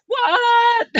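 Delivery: loud, high-pitched cry of surprise; astonished yelp; shocked disbelief. Real, not acted. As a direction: shout it in utter disbelief. Stunned at guest's years in US.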